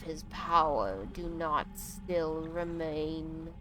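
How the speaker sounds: slow, solemn tree person voice; drawn-out ancient tree speaking gravely; Onu. Acted. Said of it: "I am slowing down Onu's dialogue".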